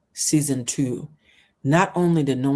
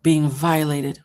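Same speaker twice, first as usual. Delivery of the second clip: real anger; slower than usual. Real, not acted. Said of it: "Oh, I'm getting so mad".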